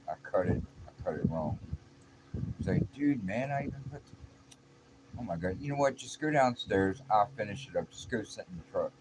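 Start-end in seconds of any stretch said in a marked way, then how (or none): 2.9-8.9 mildly exasperated coworker, pitched up; retold frustration. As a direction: act out a fed-up workmate giving up on you. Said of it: "He was getting frustrated".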